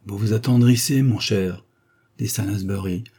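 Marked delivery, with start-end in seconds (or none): 0.1-1.7 with some harshness. Acted. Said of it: "non sans dureté".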